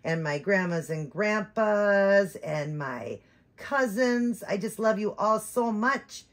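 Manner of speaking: voicing the doll.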